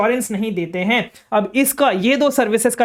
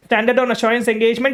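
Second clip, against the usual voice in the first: slow dictation; much slower than usual. Shown as a demonstration. Dictating term again.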